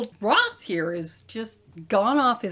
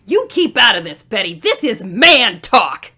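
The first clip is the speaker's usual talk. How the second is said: stern; 6 dB louder than usual. Acted. General scolds daughter.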